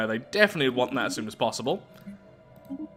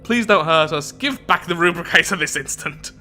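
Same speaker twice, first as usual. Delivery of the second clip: louder, urgent plea; plead, then demand it back; mock pleading demand; 4 semitones higher, 5 dB louder than usual. Acts colony's plea to the dragon.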